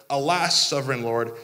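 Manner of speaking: mock tragic cry to the Lord; overdone biblical wail; overdramatic. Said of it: "you're being overdramatic".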